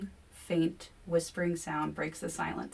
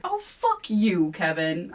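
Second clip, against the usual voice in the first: slow, louder snap; snapping; 5 dB louder, slower than usual. A narrator's reading. Narrator snapping at Kevin, slow and louder. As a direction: spit it out, goaded past endurance. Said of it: "I snap, goaded past endurance".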